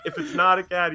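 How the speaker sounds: acted exasperated outburst; freaking out. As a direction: argue it at high pitch, playing frantic. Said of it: "he's, like, freaking out".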